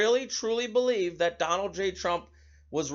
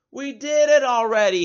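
louder and higher, a retold angry yell; imitated yell; 6 semitones higher, 8 dB louder than usual. Governor yelling at reporter about schools, imitated yell. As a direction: bark it back at the reporter, mock fury. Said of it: "he yells".

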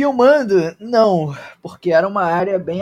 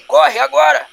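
alarmed shouting; 7 semitones higher, 5 dB louder than usual. Acted. NPC alarm over radio.

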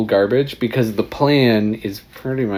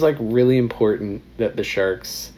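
1930s announcer; 4 semitones higher than usual. Acted. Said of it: "nineteen thirties announcer guy".

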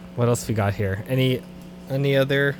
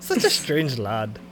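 mock Scottish; 5 semitones lower, 7 dB quieter, slower than usual. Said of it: "they don't even sound like that".

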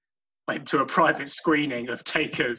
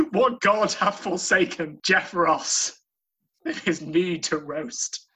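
mock tragic lament; 4 semitones higher than usual.

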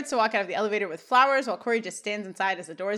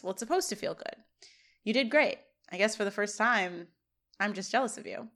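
quieter, subdued admission; softened; 5 dB quieter than usual. Acted. Corey confessing jealousy to Shawn, softened. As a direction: let the fight drain out, gently. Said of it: "Corey softens".

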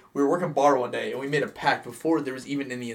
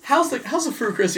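lady's voice; 11 semitones higher than usual. Retold or imitated. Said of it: "the lady goes".

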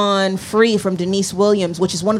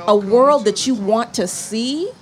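tearing up; 6 semitones higher than usual. Real, not acted. Host describing a musician's music, starting to cry. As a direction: voice climbing high as the tears come. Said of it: "here we go, it's starting".

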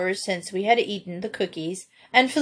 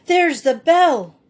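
high, loud, drawn-out exclamation; excited cry; 7 semitones higher, 7 dB louder, slower than usual. A narrator's reading. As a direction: call it out in sudden triumph. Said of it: "cried Peter".

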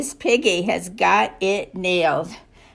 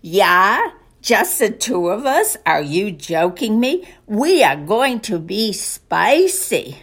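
lightly put-on German accent, drawn-out last line; playful mock German, stretching out the punchline; slower than usual. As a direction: imitate a cocky German performer. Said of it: "says with his German accent".

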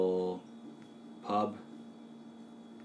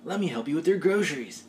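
nice surfer guy; 7 semitones higher, faster than usual. Acted. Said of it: "play someone like that who wasn't an idiot".

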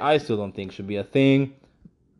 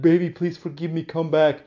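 put-on drunk pleading ex; 7 semitones higher, 4 dB louder than usual. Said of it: "be like".

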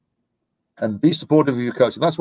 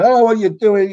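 high, louder imitation of an exasperated shout; mock yelling; 10 semitones higher, 5 dB louder than usual. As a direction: imitate a parent yelling at their kid from the sideline. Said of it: "I'm not gonna shout and yell".

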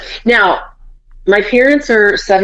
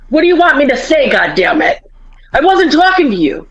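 high-pitched, mock-irritated dad; quick, higher, half-joking irritation; retold exasperation; 6 semitones higher than usual. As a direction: imitate a fed-up husband bickering. Retold quarrel, exasperated dad snaps.

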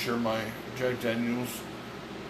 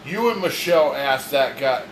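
heated accusing; 3 semitones higher, 3 dB louder than usual. Real, not acted. Heated argument about who asked what.

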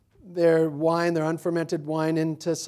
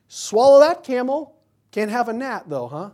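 mocking rebuke; 6 semitones higher, 9 dB louder than usual. Acted rebuke of a Pharisee.

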